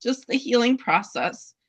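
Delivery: apologizing while still welling up; tearful apology. Real, not acted. Dog breeder apologizing to host, tearful and rushed. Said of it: "I don't know why I'm so emotional about it".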